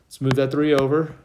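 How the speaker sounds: breathing hard while talking; winded from working out. Real, not acted. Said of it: "I'm out of breath".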